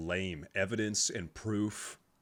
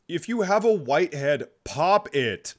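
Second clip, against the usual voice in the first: louder and higher, insisting; emphatic louder repeat; 6 semitones higher, 7 dB louder than usual. Acted. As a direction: push the point harder. Repeats advice, then escalates.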